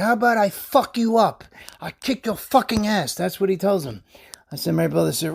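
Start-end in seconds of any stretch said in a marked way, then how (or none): 0.0-3.1 higher-pitched mock aggression; retold angry threat. Driver jumping in brother's face, retold angry threat. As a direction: act out a driver squaring up for a fight.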